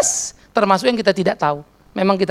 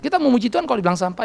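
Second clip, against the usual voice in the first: laughing; 3 semitones higher, 3 dB quieter, faster than usual. Real, not acted. Laugh heard while speaking.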